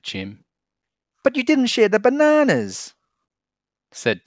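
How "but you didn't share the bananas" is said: high, loud protest; whiny high complaint; squabbling ape kid. A narrator's reading. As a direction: demand a fair share. Kids squabble.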